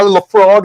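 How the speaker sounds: "Lafroig" ending in a hard g; mispronounced whisky name. Shown as a demonstration. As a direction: say "Lafroig" to rhyme with frog. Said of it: "I couldn't pronounce any of this stuff".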